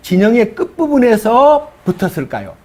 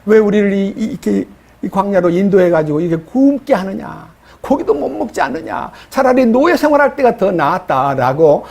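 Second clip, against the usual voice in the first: mock tearful complaint. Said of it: "눈물을 흘리면서".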